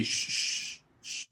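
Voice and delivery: breathy unvoiced shush. Shushing a friend in a movie theater, a soft shush. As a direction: hush a friend during the scene.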